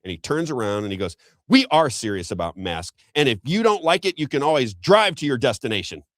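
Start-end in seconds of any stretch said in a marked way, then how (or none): 1.5-6.0 raised, higher-pitched retort from an imitated attendant; firm start, then jumping higher in mild indignation; mock shouting down. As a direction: imitate someone putting a passenger in their place. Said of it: "shout me down with".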